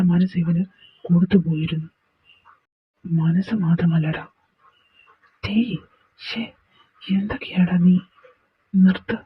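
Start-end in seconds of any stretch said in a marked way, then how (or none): 5.5-9.2 whisper. Acted. Hushing a friend mid quarrel.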